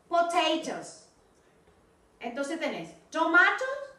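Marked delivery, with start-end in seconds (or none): 0.1-1.1 Potatoes drawn out slowly; careful pronunciation model; slow model word. Shown as a demonstration. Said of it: "repitan esta palabra".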